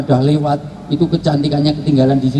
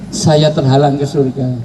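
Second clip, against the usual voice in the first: mock crying.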